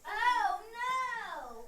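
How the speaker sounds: high, loud "Oh no"; exclamation. Shown as a demonstration. Student tries reading for teacher, loud high exclamation. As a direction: cry it out with alarm. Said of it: "that's more of an exclamation point".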